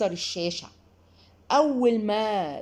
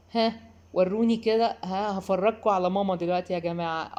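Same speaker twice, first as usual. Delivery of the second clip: a hint of a cheeky kid showing off mom's temper; child's taunting voice. Child teasing guests about his mother, lightly voiced mischief. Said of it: "ماما المتوحشة".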